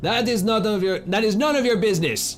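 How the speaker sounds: put-on Russian accent. Playing a character who refuses a stranger's question, in a Russian accent. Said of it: "it's Russian".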